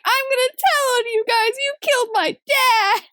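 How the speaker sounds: high-pitched hammed-up hysterics; mock hysterical child. Boy threatens to tell on the police, mock hysterical. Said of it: "this hysterical child".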